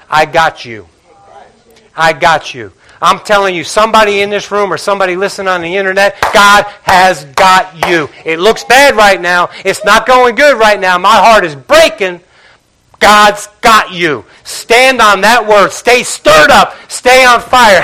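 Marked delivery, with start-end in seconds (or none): 0.1-2.7 reassuring God. Acted. God reassuring, softer and lower. 6.3-8.1 slow emphasis. Acted. Pastor assuring the room that God holds them, slowly. 13.0-17.8 slow, emphatic commands; slow exhortation. Acted. Pastor urging the congregation to hold on, slow.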